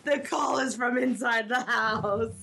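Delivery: half laughing through the words. Real, not acted. Friend realises the lost thing was nearby, laughing. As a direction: let the laugh break into the line. Laughing over her own blunder.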